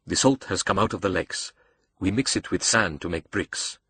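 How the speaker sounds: measured, precise villain host; a hint of a cultured villain; lightly voiced accented mastermind. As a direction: explain with lightly foreign formality. Razim explains the salt.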